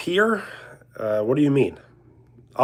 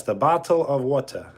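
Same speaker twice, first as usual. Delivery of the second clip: attempted British accent. Streamer showing viewers a best attempt at a British accent. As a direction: lightly fake a British accent. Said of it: "I did the British accent".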